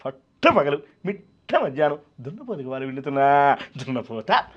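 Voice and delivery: comic variation on a film villain, stretched opening words; Jayaprakash Reddy. Acted. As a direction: draw out the words for laughs in the villain's voice. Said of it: "కానీ నవ్వాలంటే". (జయప్రకాష్ రెడ్డి హాస్య అనుకరణ)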